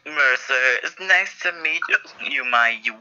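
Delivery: choppy broken robot voice; glitching robot. Acted. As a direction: stutter like a malfunctioning robot. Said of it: "Sound like a broken robot".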